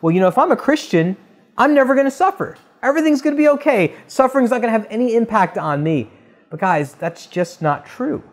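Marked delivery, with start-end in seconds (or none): 0.0-6.1 naive believer. Retold or imitated. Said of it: "what we're essentially saying is".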